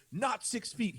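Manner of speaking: high, insistent mock yell; retold yelling. Neighbor to the man behind him, high retold yell. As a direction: scold him, pitched well up. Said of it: "he was yelling at a Hispanic guy".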